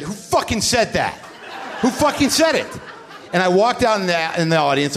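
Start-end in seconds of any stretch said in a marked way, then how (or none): 0.0-2.7 rising mock outrage, the second cry much higher; hammed-up furious challenge to the crowd; retold angry demand. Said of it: "I said".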